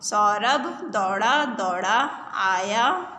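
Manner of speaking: slow, chanted reading with repeats; sing-song reading. Shown as a demonstration. Teacher chanting a reading line for pupils. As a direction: chant it slowly so children repeat. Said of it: "reading drill with the class".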